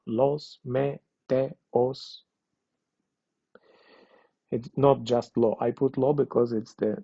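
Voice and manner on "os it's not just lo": ordinary delivery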